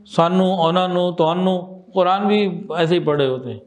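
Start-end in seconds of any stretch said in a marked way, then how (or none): 0.1-1.8 nasal ghunna sound in سانو، اونانو، توانو; Punjabi nasalization. Shown as a demonstration. Teacher showing students Punjabi speech habits, nasalized سانو، اونانو، توانو. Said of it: "Punjabi میں غنے بہت ہوتے ہیں".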